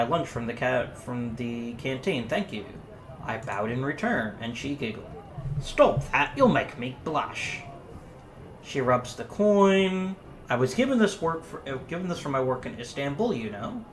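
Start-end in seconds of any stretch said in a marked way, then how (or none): 5.6-13.8 put-on Yorkshire accent. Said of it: "I'm not doing the voice anymore".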